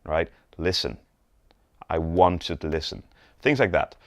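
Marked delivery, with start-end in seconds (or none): 0.6-3.0 "Listen" set apart, then stress on "want"; measured emphasis on "listen" and "want"; emphatic stress. Shown as a demonstration. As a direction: land firmly on "Listen", pause, then weight "want". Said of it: "whenever we wanna emphasize on a word".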